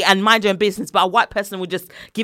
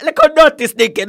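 mum going off; 5 semitones higher, 6 dB louder than usual. Retold or imitated. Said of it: "mum went off".

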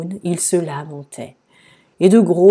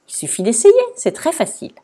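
higher, cheery reassurance; smiling encouragement; 10 semitones higher, 4 dB louder, faster than usual. A narrator's reading. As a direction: say it with an audible smile. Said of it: "Madame Bonheur dit en souriant". (encouragement souriant)

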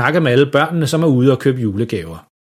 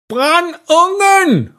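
drawn-out high garbled yell; råb for fuld hals; much slower than usual. A narrator's reading. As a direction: bellow it slowly with a scalded tongue. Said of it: "råber far nu for fuld hals". (langtrukket, højt skrig)

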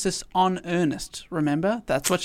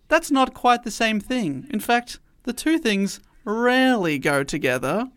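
Lady Bracknell; 4 semitones higher than usual. Acted. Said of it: "unleash a bit of Lady Bracknell on you".

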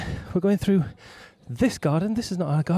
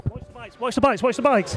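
urgent warning; 6 semitones higher than usual. Real, not acted. Warning a rider about bikes.

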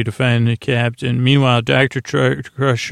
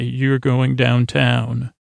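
slow, drawn-out delivery; deliberate cop line; slower than usual. Retold or imitated. Cops roll up to take him downtown, slow and deliberate. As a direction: stretch it out like a cop making an arrest.

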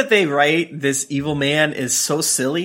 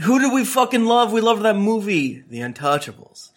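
mock gushing fan; 3 semitones higher than usual. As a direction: gush over the movie like a fanboy. Voicing characters gushing.

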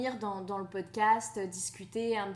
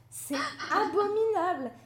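laughing; 8 semitones higher, 4 dB louder than usual. Real, not acted. Laughing about her endless reading list.

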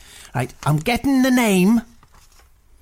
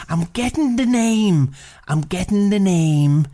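mock psychic; slower than usual. Fake psychic channelling a name.

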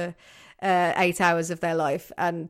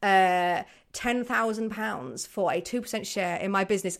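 hapless inventor; 5 dB quieter than usual. Acted. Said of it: "Crisps would be like".

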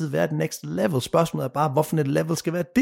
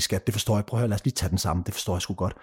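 low, soft, soothing quote; imitating a calm, conciliatory partner; understanding partner; 7 semitones lower, 5 dB quieter, faster than usual. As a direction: gently reassure an upset sweetheart, voice dropped. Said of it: "som gerne vil forstå dig".

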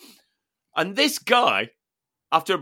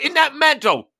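gleeful; 11 semitones higher, 5 dB louder than usual. Retold or imitated. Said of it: "And he just went".

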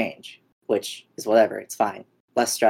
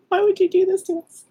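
laughing plea; 4 dB louder than usual. Real, not acted.

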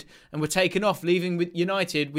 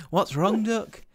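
put-on Yorkshire accent; 4 semitones higher, slower than usual. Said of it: "You're Bristol".

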